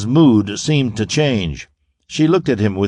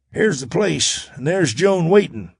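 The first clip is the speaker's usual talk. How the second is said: calling out; 6 semitones higher than usual. A narrator's reading. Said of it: "Ezra called out".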